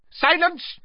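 high, loud snapping command; sharp, loud silencing shout. Acted. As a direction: cut him off sharply. Dark lord snaps.

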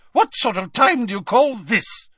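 high haughty lady voice; Fat Lady voice. Acted. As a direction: play a prim, put-out portrait lady.

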